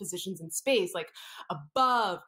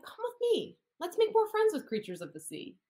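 dolphin voice; 9 semitones higher than usual. Acted. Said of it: "Friendly dolphin said".

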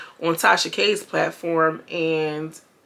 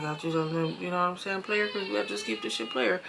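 much softer, mumbling like a rapper's crew; low mumble imitation; 9 dB quieter than usual. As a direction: mumble it low under your breath. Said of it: "they all talk real low like this".

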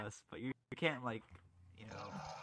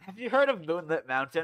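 excited pitch; 5 semitones higher, 7 dB louder than usual. Acted. Pitching a joke proposal.

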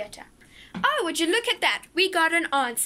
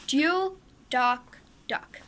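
each word spaced out slowly; slow and careful; 2 semitones lower, much slower than usual. Shown as a demonstration. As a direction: say it slowly, sounding out every word. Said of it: "see if you can say the Tank Twister faster than me".

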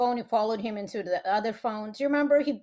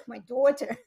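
imitated Russian drifting into Boston; retry the Russian accent, still sounding Boston; botched Russian accent. Repeating dad's words, botched Russian accent with a Boston tinge. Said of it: "I don't know why that sounded from Boston".

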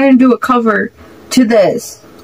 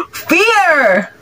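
startled gasp; 6 semitones higher than usual. Real, not acted. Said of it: "I said that too loud".

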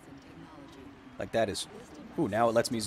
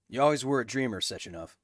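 imitating the game character; 4 dB quieter than usual. Streamer copying the game character's line, lightly voiced. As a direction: echo the villain line in a light put-on voice. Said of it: "who did it better?".

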